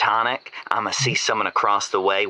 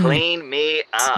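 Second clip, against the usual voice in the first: mock plea; 6 semitones higher, slower than usual. Mock plea after dirty joke.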